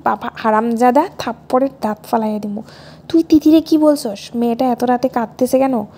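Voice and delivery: furious father scolding down the phone; angry father shouting. Acted. Father shouts at son for upsetting Tithi, loud angry scolding.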